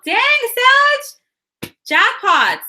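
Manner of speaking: real thrilled exclamation; excited. Real, not acted. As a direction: celebrate the cards out loud. Reacting to a great spread.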